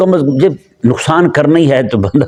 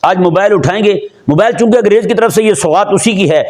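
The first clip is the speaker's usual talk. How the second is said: ordinary talk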